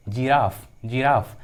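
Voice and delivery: जिराफ begun with a clear J sound; soft G as J. Shown as a demonstration. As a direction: teach जिराफ with G said as J. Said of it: "जी का उच्चारण ज होता है". (जिराफ में G को "ज" बोलते हुए)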